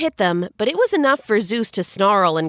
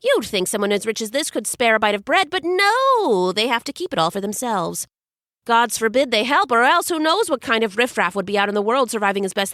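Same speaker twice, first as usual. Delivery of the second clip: quick, sarcastic griping; fast indignant rant. Acted. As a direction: rant fast about the stingy rich. Hermes rants about the rich.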